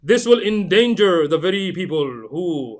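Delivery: slow, exaggerated Indian accent. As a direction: put on a thick Indian accent. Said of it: "I had to make my Indian accent come out".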